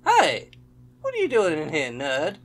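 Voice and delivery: high, loud heckling yell; mock angry shout. Player voices a character chasing out a nerd, mock angry shout. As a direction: shout them out like a bully.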